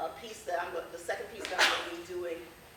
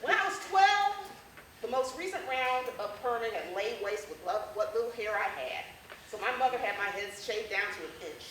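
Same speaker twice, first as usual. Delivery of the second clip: comic essay reading; 3 dB louder than usual. Acted. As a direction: perform a funny childhood story for a crowd. Performs humorous essay to audience.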